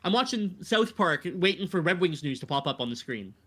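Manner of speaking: high-pitched sarcastic protest, easing back down. Real, not acted. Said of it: "I'm using sarcasm".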